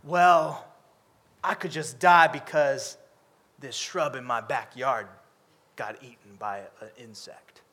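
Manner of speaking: low, fading mock lament; hammed-up self-pity trailing off; mock dramatic Jonah. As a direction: sulk over the eaten shrub. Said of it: "And he's like".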